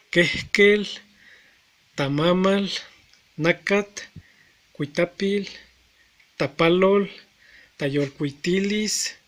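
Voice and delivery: reading Nahuat words as a quick list, each with a rising end. Shown as a demonstration. Teacher reading a vocabulary list aloud for learners, in list form. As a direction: rattle off the list of Nahuat words, one after another. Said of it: "pronunciamos en forma de lista".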